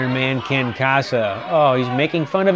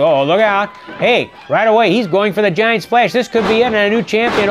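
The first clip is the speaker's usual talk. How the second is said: much higher and louder, rising hype; excited call; 8 semitones higher, 5 dB louder than usual. Real, not acted. Commentator calling the giant splash for viewers, higher, louder, thrilled. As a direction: sell it like the title is about to change hands.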